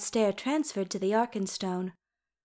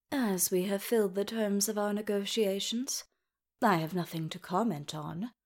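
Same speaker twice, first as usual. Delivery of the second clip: cold imperious elf king; 6 dB quieter than usual. Acted.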